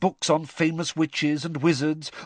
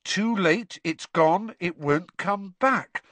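squeaky house elf; 6 semitones higher, slower than usual. Acted. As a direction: squeak it out urgently. Dobby voiced.

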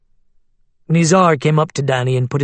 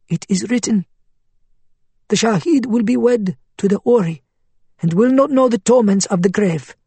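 persuasive cleric voice; 7 semitones higher than usual. Acted. Faiz citing scripture.

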